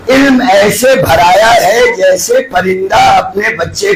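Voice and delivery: slow, crying call of the saying; tearful proclaiming. Real, not acted. Preacher quoting Ali's words to the crowd, slow and tearful. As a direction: voice breaking while preaching. Emotional climax of hadith.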